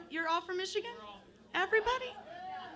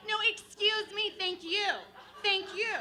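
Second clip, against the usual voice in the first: polite aggressive; 6 semitones higher than usual. Retold or imitated. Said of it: "the other one was like".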